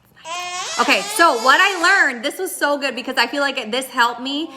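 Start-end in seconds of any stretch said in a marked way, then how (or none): 0.0-0.8 put-on whispered shushing to calm a baby; gentle demo whisper of consoling an infant; soothing shush. Shown as a demonstration. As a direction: hush softly as if settling a fussy baby. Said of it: "Like, you".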